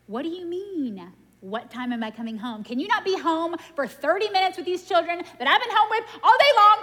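building to a high, loud exasperated rant; hammed-up frazzled mom yelling; mock angry rant. Retold phone rant at husband.

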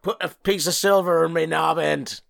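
hammy West Country pirate. Acted. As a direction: growl it like an old sea dog. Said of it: "Long John Silver, arr".

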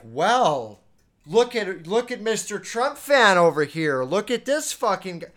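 loud, high, sneering mock voice; mocking taunt. Ridiculing a Trump fan friend, loud mocking sneer. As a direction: jeer at him like a schoolyard bully. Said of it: "I'm not like".

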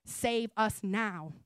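slow, spaced-out plea; understated exclamation. Retold or imitated. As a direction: draw out each word of the plea, without shouting. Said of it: "save with an exclamation mark".

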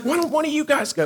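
whiny plea. Retold or imitated. Boy begs his brother and friend to go instead, high whiny plea. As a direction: beg like a scared ten-year-old. Kid begging again.

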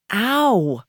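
short pained whine, pitch swooping up and down; self-pitying little yelp. A narrator's reading. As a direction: whine after bumping your hip. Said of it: "whines Roberta to nobody".

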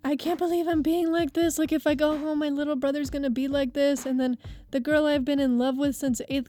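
mildly imitated tearful whine; mock a drunk man's weepy lament; retold crying. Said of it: "starts crying his eyes out".

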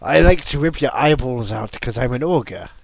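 lightly voiced ogre. Quoting the ogre, in character.

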